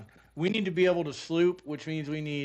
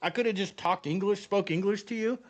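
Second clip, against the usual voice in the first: exasperated disbelief; 5 semitones higher than usual. Retold or imitated. Exasperated at the girl.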